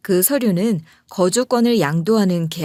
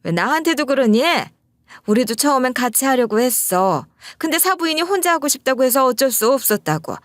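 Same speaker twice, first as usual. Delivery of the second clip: higher, defensive mother-in-law flaring up; snapping mother-in-law; 5 semitones higher than usual. Retold or imitated. Mother-in-law snapping at her son on the phone, defensive flare. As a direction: bristle and push back, pitched up. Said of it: "확 성질을 내는 거예요".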